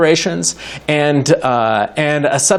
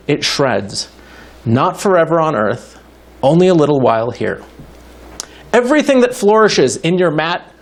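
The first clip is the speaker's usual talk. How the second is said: poem reading. Acted. Reads Nahuatl poem aloud.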